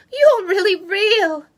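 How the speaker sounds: high, loud and slow with delight; joyful cry. Acted. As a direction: call it out overjoyed. Girl's joyful reunion shout.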